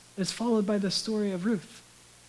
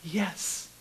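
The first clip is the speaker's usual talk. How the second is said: emphatic yes; 5 semitones lower, 11 dB quieter than usual. Acted. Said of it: "an emphatic".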